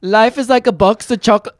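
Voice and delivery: an offhand Forrest Gump impression; mock Forrest Gump. Mixing up Shrek with a Forrest Gump accent. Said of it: "Isn't that what he talks?".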